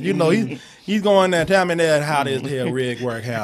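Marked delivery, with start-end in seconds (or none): 1.5-3.4 heavy Cajun. Retold or imitated. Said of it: "talking like that real heavy Cajun".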